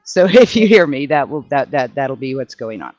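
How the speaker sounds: speaking outside in strong wind; windy outdoors. Real, not acted. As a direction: talk through the wind outdoors. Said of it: "it's windy as crap and I'm outside".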